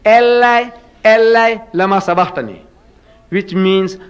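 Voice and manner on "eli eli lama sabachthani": raised, anguished cry of Eli, Eli. Retold or imitated. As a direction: call out like a man in agony. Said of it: "Jesus Christ cries out".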